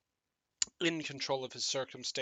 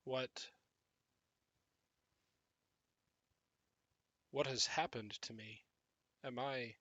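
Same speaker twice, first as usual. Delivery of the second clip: lost zombie; 2 semitones lower, 8 dB quieter than usual. Acted. Zombie realizes he's changed.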